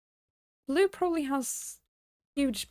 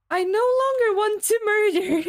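hammed-up about-face; 8 semitones higher, 6 dB louder than usual. Sudden reversal, hammed up.

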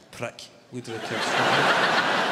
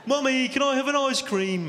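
put-on very high, loud child calling out; whining kid's accent; 14 semitones higher, 6 dB louder than usual. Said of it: "It's that accent again".

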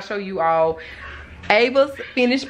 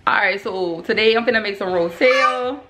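heavy New Orleans accent, playful. Shown as a demonstration. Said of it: "my New Orleans voice".

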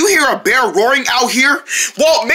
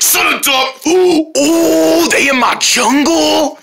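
grumbling bear; 3 semitones higher, slower than usual. Acted.

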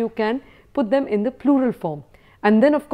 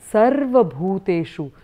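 measured recitation, each syllable drawn out; slow verse recitation; slower than usual. Shown as a demonstration. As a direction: recite it slowly for learners to follow. Teacher recites verse for learners.

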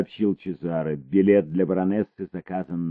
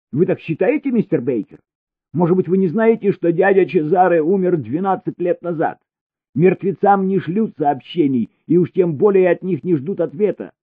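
much higher and loud, fast in places; alarmed protest; 13 semitones higher, 7 dB louder than usual. A narrator's reading. Elina protests to Baker, high and alarmed. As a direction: panic building against him.

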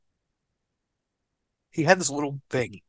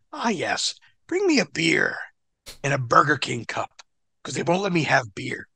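James Mitchell. Retold or imitated. James Mitchell asking Mikey for beer, lightly mimicked. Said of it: "He goes".

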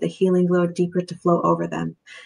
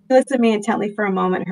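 hurried read, voice tight with tears; rereading the line while fighting tears; choked up; 3 semitones higher, much faster than usual. Real, not acted. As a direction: push through the tears quickly. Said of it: "I'm so getting choked up".

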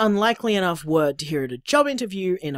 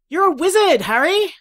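loud, high teasing quote; mock movie line; 12 semitones higher, 5 dB louder than usual. Teasing her boyfriend about being a wizard, hammed-up and loud. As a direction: proclaim it like the famous film line. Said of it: "I made a stupid Harry Potter joke".

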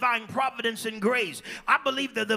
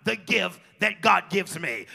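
voiced question; 3 dB louder, slower than usual. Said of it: "with that tone of voice".

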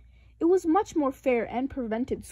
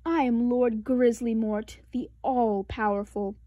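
mock dark lord. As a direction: announce yourself as the evil lord. Sister plays the dark lord.

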